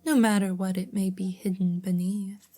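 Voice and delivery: measured storybook narrator; story narration. A narrator's reading. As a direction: read the tale aloud with care. Reads story aloud.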